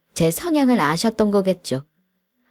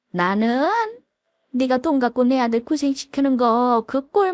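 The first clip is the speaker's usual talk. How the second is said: put-on higher, sneering old mother-in-law voice; mocking mother-in-law; 5 semitones higher than usual. Mother-in-law belittling her son's wife, higher sneering voice. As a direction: needle her with scornful questions.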